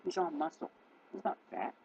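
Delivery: high-pitched cooing about a pet; doting pet talk. Real, not acted. Owner showing off a big cat, high doting pet talk. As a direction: coo proudly in a small high voice.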